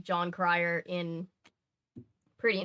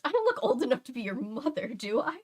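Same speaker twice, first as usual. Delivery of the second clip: higher, louder teasing friend; mock friend retort; 5 semitones higher, 3 dB louder than usual. Friend Natasha firing back at the joke, teasing and higher. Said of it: "And she goes".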